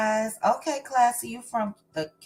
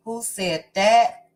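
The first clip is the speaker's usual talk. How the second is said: a light put-on character voice, a little louder, lifting at the end; Portia voice; 4 dB louder than usual. Livestream host teasing her chat in a lightly voiced Portia. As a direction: toss the question out as a playful character. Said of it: "I said that in my Portia voice".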